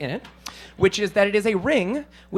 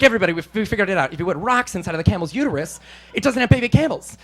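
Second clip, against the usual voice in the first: excited villagers; faster than usual. Retold or imitated. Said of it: "they're so excited".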